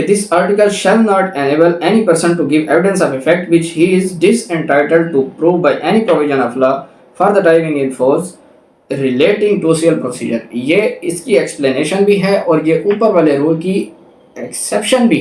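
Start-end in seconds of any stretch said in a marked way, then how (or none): 0.0-10.4 reading the law out slowly, word by word; slow, deliberate legal reading; slow statute reading. Shown as a demonstration. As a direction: dictate the section clearly to students. Reads explanation text aloud.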